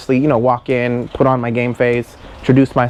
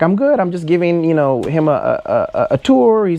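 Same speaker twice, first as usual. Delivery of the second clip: higher-pitched, stumbling excuse; mildly panicked imitation of a friend; flustered friend; 5 semitones higher than usual. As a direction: cover nervously for an unexpected guest. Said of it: "she freaks out".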